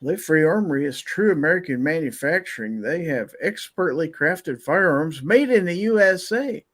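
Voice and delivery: upbeat sponsor read voice. Acted. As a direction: sell it like a radio spot.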